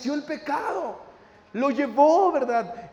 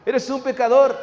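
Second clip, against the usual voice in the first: raised, incredulous accusation; scornful inner voice; 3 semitones higher, 4 dB louder than usual. Acted. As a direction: challenge them in mock disbelief. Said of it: "esa voz interna que te dice".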